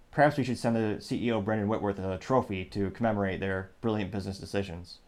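low, understated sarcastic praise; deadpan sarcasm. Real, not acted. Commentator suggesting a trophy for the CEO, deadpan sarcasm. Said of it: "That's sarcasm, folks".

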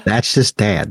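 slipping into a light redneck accent; a hint of redneck drawl; casual speech drifting into redneck accent; accidental redneck accent. Real, not acted. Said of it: "Why am I talking in this accent?".

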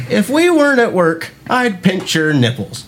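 mock-flirty boss voice; boss's come-on. Lightly voiced boss, teasing come-on at work. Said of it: "And she's just like".

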